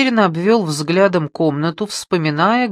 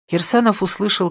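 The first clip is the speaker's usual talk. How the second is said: usual speaking voice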